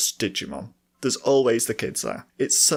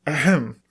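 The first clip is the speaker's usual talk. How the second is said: throat clearing; 3 semitones higher, 3 dB louder than usual. Real, not acted. Clearing dry throat before talking.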